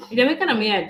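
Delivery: demonstrating Jamaican patois; Jamaican accent. Shown as a demonstration. Partner corrects speaker's Ghanaian sound, Jamaican accent. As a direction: model the line in a Jamaican accent. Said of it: "You're speaking like a Ghanaian".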